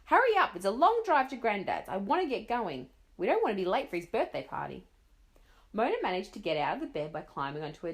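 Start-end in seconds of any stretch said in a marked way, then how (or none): 0.1-4.9 loud, impatient hurrying; mother rushing a child to leave; shouting mother. Acted. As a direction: urge her on loudly. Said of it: "her mother shouted again".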